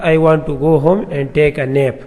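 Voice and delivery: very slow, each word spelled out for the class; careful dictation pace; slow example read. Shown as a demonstration. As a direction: read the sample sentence slowly and clearly. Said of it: "example کے طور پر".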